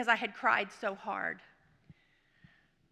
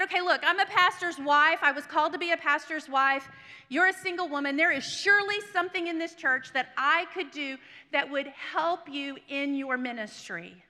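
raised, emphatic self-promotion; insistent pitch; 4 semitones higher, 4 dB louder than usual. Retold or imitated. Pastor's wife offers her pastor friend help, insistent and emphatic. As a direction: make an earnest case, pressing every point.

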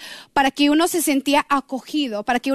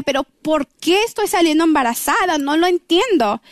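exasperated, mildly angry protest; frustrated questioning, a touch of anger; retold anger; 3 semitones higher than usual. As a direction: retell a baffled, annoyed complaint. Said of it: "Y yo estaba enojada".

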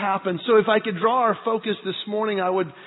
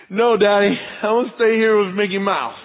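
louder mock little-boy refusal; lightly voiced stubborn child; 6 dB louder than usual. Boys refusing Dad's Disney plan, mildly childish protest. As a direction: dig in like a small kid.

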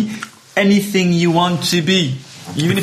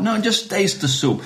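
higher-pitched mild impatience; insistent diner; 5 semitones higher, 3 dB quieter than usual. Acted. Diner to waiter in soup joke, mild insistence. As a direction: press the waiter, mildly exasperated.

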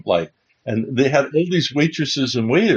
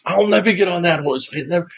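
insistent, higher-pitched protest; serious refusal; 5 semitones higher, faster than usual. Retold or imitated. Birthday man refusing the waitress, serious refusal. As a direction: refuse as if you truly mean it. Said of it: "It wasn't him kidding around".

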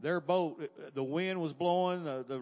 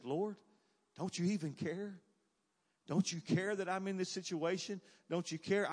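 pleading prayer; 4 semitones higher than usual. Acted. Voicing a believer's hurt plea to God.

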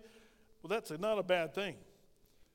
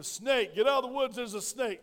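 mock scream; 4 semitones higher, 5 dB louder than usual. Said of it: "they started screaming".

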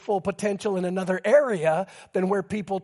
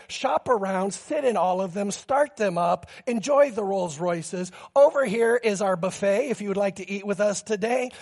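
courteous welcome. Retold or imitated. Rolls-Royce dealer welcoming browsers with no pressure, gently courteous. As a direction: put guests at ease with gentle, even politeness.

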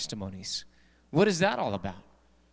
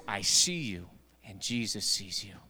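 low, soft spooky voice; 8 semitones lower, 6 dB quieter than usual. Acted. Spooky hidden voice in joke.

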